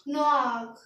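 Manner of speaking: नोआक as French noir, with a throaty final r; French pronunciation of नोआक. Shown as a demonstration. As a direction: end नोआक on a rasped French r. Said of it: "तो इसे क्या पढ़ेंगे?".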